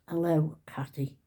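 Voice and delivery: soft whispered "Hello, Cathy"; whispered greeting. Shown as a demonstration. Trying out a whispered comment for the viewers. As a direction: breathe the greeting softly. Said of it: "So what could you say?".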